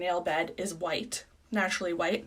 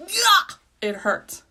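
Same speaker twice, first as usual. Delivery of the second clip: high, loud, slow whimper of pain; pained whine; 11 semitones higher, 7 dB louder, much slower than usual. Real, not acted. To viewers about pinching the eye, high slow whine. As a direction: stretch it out like it stings.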